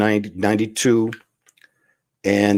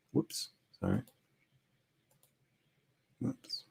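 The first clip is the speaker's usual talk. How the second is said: oops; 10 semitones higher, 18 dB quieter than usual. Real, not acted. Fumbling the camera mid-demo.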